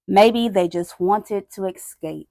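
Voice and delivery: weighty, dramatic read-aloud with long pauses; solemn story narration. A narrator's reading. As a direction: tell the grim story phrase by phrase. Reads picture book aloud.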